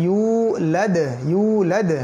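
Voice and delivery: ইউলাদ with a long "yu" and a bounced "d"; qalqala echo. Shown as a demonstration. Teacher demonstrates a verse ending, slow echoed ইউলাদ. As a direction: stretch ইউলাদ, then pop the final "d". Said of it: "এইভাবে আর কি".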